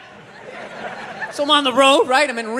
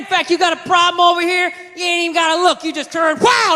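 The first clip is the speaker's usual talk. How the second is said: higher-pitched redneck salesman; redneck gun dealer; 4 semitones higher than usual. Acted. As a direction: sell it like a backwoods gun expert. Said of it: "there's some redneck there".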